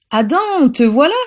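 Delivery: high, lilting fond greeting; tender. A narrator's reading. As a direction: welcome Adam affectionately, voice lifted. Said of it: "dit Eleanor avec tendresse".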